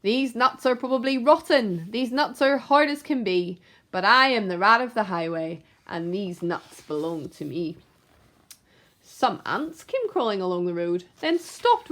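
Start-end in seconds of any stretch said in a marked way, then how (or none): 0.0-7.8 a hint of a greedy snarl; snarling rat. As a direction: snarl it as you snatch.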